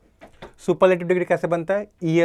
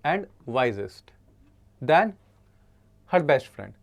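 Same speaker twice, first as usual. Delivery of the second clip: pointed slow read; much slower than usual. Shown as a demonstration. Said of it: "यहाँ पे लिखा है".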